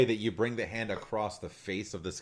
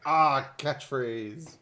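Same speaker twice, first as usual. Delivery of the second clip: slow, drawn-out, higher-pitched imitation of last words; mock dying cry; 6 semitones higher, much slower than usual. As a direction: ham up the fall in battle. Mimics the player's dying line.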